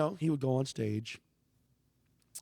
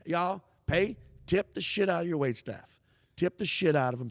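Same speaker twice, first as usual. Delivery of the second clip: urging crowd; 6 semitones higher, 6 dB louder than usual. Retold or imitated.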